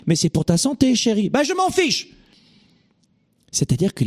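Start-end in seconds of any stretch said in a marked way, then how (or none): 0.1-1.3 mildly imploring, raised pitch; lightly acted spouse reasoning with a stubborn one; pleading partner. 1.3-2.1 very high, petulant mock refusal; exaggerated couldn't-care-less outburst; dismissive retort. Acted stubborn refusal to partner.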